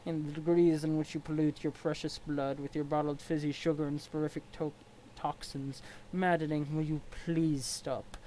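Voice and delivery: stiff, formal troll sneering at his rival; a lightly voiced haughty troll. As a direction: look down your nose at him. Equius troll voice.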